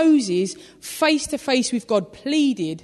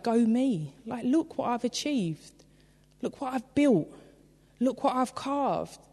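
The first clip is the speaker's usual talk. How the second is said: softer, smug murmur of pride; quietly smug, patting yourself on the back; mock self-congratulation; 6 dB quieter than usual. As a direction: admire your own handiwork under your breath. Quoting proud idol-builder.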